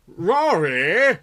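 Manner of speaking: calling out. Acted. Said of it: "called Bruce".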